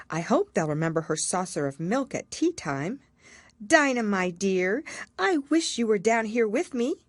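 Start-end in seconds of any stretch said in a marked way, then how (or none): 3.6-7.1 Alice missing her cat. Acted.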